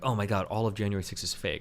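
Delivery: ordinary talk, nothing marked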